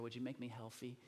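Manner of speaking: put-on childlike "healthy", TH turned into F; child's mispronunciation. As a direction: say "healthy" with an F for the TH, "helfy". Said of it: "Kind of with an F in there".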